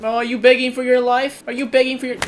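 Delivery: high, mocking sing-song; mocking taunt. Real, not acted. Mocking an enemy who pleads.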